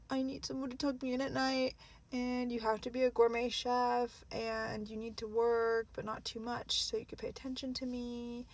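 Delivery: lightly mock a picky man reeling off demands; mimicked demanding man. Mimicking men listing impossible standards, lightly mocking demands.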